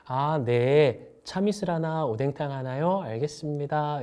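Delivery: slow, friendly order repeat; friendly smiling waiter. Shown as a demonstration. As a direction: read the order back kindly with a smile. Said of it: "미소를 싱긋 찍고 가요".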